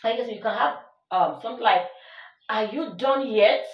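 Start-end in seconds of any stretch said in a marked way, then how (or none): 2.5-3.7 slow, with the tune lifting on "yet"; rising question tone. Shown as a demonstration. Teacher demonstrates question intonation, slow rising tone. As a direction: ask it slowly and let the end rise. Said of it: "The tone rises".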